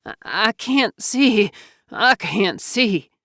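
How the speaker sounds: falter, then wail the friend's name; distraught, breaking into anguish; crying out. A narrator's reading. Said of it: "JoBeth cried".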